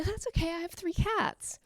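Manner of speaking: mildly sweet, placid reassurance; bland smile. Retold or imitated. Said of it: "smile blandly and say".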